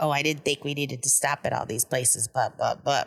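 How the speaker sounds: put-on grumbling under breath. Retelling what a woman muttered during a food run, mimicking muttering under breath. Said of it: "under her breath".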